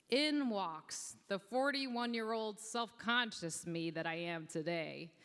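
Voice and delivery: ordinary delivery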